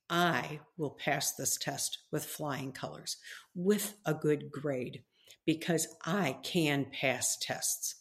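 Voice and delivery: slow, sure affirmation; calm confident declaration. Shown as a demonstration. Preacher modelling a student's confident words, slow and calm. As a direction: speak it slowly like a promise to yourself. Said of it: "you say".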